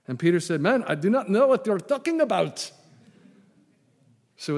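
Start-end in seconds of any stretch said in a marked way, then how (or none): 0.6-2.7 raised, high protesting voice; exasperated denial. Acted. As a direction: protest it, pitch climbing. Peter's third denial, acted.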